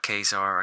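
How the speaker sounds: Kazar said as KAY-zar; long "ay" opening Kazar; first pronunciation variant. Shown as a demonstration. Collector guessing what a movie might settle, Kazar as KAY-zar. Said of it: "whatever way you pronounce it".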